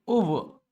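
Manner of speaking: "ओवर" drawn out as "oo-vuh"; slow "ओवर" with no final r. Shown as a demonstration. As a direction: end "ओवर" on an open uh. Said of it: "ऐसे, ऐसे".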